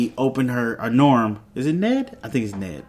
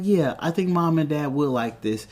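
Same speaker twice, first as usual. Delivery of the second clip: retold sister's agreement; 3 semitones higher, 3 dB quieter than usual. Sister retold agreeing with her brother, lightly raised voice. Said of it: "And she's like".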